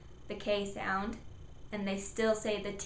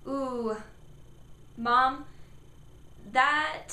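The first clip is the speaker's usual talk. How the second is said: put-on a child calling mom, pitched higher; child saying; 4 semitones higher, much slower than usual. Child calling to mom, higher. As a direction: kid calls out to mom. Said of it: "they say".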